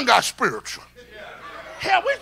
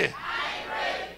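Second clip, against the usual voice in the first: slow whisper of "I ain't ready", much softer; whispered echo; 15 dB quieter, slower than usual. Shown as a demonstration. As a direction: breathe "I ain't ready" as a hushed confession.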